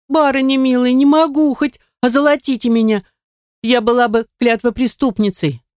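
put-on high, pleading young maid, begging her mistress; a frightened maid refusing to tell, pitched high. A narrator's reading.

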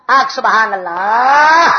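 drawn-out, swelling preacher's call; slow rallying cry to the crowd; call for praise. Real, not acted. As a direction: stretch the last syllable to rouse the congregation. Preacher prompts crowd to praise God.

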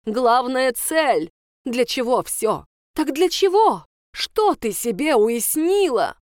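loud, high, hammered questions; ranting teacher. Acted. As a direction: lecture her in a fury. (распаляясь, громко)

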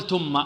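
"ثم" said as "tumma" with a hard t; th turned to t. Shown as a demonstration. Teacher warning against a mistake, "ثم" pronounced "tumma". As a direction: replace the soft th of "ثم" with a stopped t. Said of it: "لا نقول ثم".

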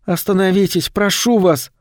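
high, strained hoarse plea; raspy whisper. A narrator's reading. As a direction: beg for help, voice failing. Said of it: "хрипло прошептала она".

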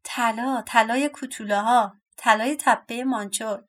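mild shout, chanted in bursts; storybook cry. Acted. Second dwarf boasting of their gold, mild cry. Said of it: "فریاد زد".

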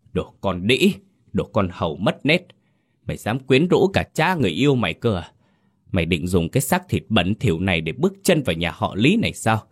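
jealous mistress tearing into the maid; furious berating. Acted. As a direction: spit abuse at the girl. Mistress beating the servant girl.

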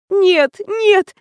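a hammed-up tearful protest; near sobbing. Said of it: "почти рыдала я". (почти рыдая)

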